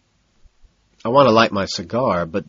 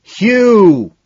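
high, loud, drawn-out call; long holler; shouted name; 11 semitones higher, 9 dB louder than usual. A narrator's reading. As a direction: yell the name so it's understood. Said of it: "Madison shouts".

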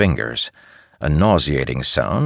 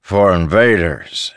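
put-on slurred drunk; 3 semitones higher, 5 dB louder than usual. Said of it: "his voice slurred".

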